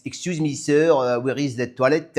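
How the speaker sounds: put-on halting French-accented English; newcomer's basic English, lightly French-accented; beginner's English. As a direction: imitate your own early English with a French accent. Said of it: "I used to talk like this".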